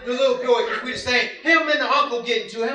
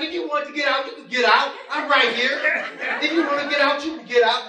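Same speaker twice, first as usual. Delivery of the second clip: higher-pitched, cocky challenge; talking big; 5 semitones higher, faster than usual. Retold or imitated. Player dares Big J as brother holds him back, talking big. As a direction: act out big talk with bravado. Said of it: "I'm talking big".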